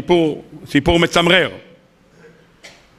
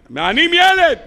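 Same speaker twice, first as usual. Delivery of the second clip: anguished cry; 11 semitones higher, slower than usual. Acted. Boy crying out in pain to his father, anguished. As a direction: shout that a child is suffering. Child screams under torture.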